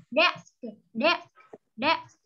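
"Desk" with its final consonants sounded out; clear final sound. Shown as a demonstration. Teacher showing a pupil the word's ending, clear final consonants on "Desk". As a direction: model "Desk", finishing on an audible s-k ending. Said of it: "chú ý luyện lại âm đuôi".

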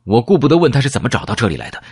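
ordinary delivery

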